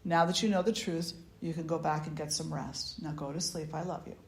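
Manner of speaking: soft, self-satisfied grandmother; a hint of a pleased grandmother tucking her in; smug and tender. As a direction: grandmother at bedside, gently pleased. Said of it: "feeling very good about herself".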